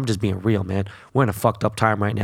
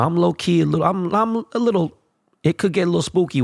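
mock scared; 8 semitones higher than usual. Jokes he's scared of Donald.

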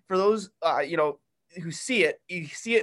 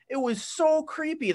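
so stretched high and long, half disgusted; creeped-out emphasis; 10 semitones higher than usual. Real, not acted. Co-host recalls the creepy article, stressing so. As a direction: lean hard on so, like it still gives you chills.

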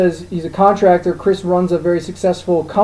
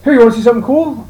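excited friend; 5 semitones higher, 4 dB louder, faster than usual. Retold or imitated. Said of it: "He's like".

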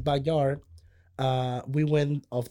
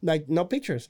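normal talking voice

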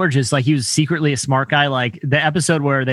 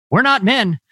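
higher, mildly exasperated sitcom quote; mild mock dismay; 6 semitones higher than usual. Friend quoting a sitcom diner scene, mock dismay. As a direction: retell it with rising mock indignation. Acted sitcom realization, pitch jumps.

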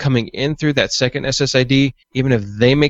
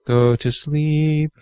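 sleepy lullaby voice; 3 semitones higher, much slower than usual. Pretend. Teasing sleepy Mitch again.

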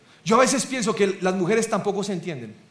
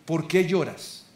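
slow, softer question; hushed question; 3 semitones lower, 5 dB quieter, slower than usual. Shown as a demonstration. Preacher showing the question not to ask a woman, slow and soft. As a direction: ask it slowly and softly, as the question to avoid. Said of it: "hay preguntas que creo que no se le pueden hacer".

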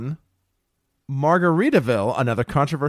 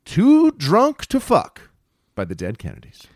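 slow announcer voice; 2 semitones higher, 4 dB louder than usual. Acted. Announcing the award winner.

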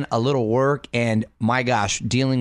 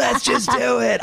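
higher, slow, carefree pop-star line; pop-star impression; 11 semitones higher than usual. Host retrying his impression of a pop singer, higher and slow. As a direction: toss it off like a carefree pop star. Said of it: "I'm not raspy enough to do, to do her".

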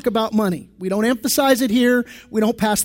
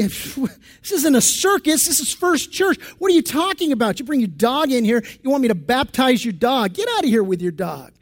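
offended pastor; 2 semitones higher than usual. Retold or imitated. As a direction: play the scandalised pastor, hammed-up. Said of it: "the pastor is offended".

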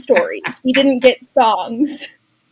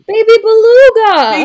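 high gasping delighted cry; excited; 9 semitones higher, 7 dB louder than usual. Real, not acted. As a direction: gasp it out with delight. Excited recognition of the song.

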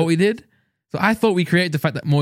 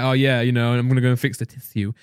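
lightly mocked politician, lower-pitched; posh politician; 4 semitones lower than usual. Friend imitating politicians about to fix things, mildly posh. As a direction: mimic a politician saying "tissue" as tiss-yoo. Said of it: "listen to politicians".

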